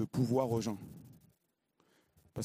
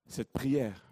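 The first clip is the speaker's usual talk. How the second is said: normal talking voice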